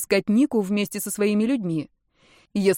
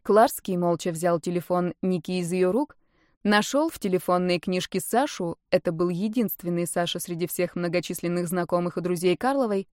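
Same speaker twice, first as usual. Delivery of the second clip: plain reading voice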